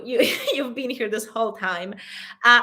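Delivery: ordinary delivery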